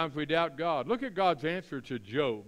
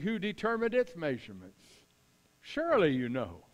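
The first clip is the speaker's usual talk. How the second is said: emphatic, raised reading of God challenging Job; Lord's voice; 3 semitones higher, 4 dB louder than usual. Acted. God questioning Job out of the whirlwind, commanding and emphatic. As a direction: challenge him like an almighty questioner. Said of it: "in the Lord's voice here".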